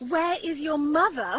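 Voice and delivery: mildly mocking echo of the nurse. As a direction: throw her odd question back at her. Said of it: "How oddly thou repliest".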